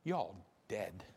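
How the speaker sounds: low, soft, deadpan delivery; dead serious. Shown as a demonstration. Preacher telling the congregation the blunt truth, low and deadpan. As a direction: drop the voice and let it land. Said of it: "I'm being dead serious".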